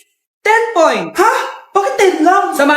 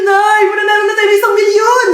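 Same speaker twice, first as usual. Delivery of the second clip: shouting to mom on live TV; excited yelling; 3 semitones higher than usual. Acted. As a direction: yell the big win to your mother. Contestant yells to mom on TV.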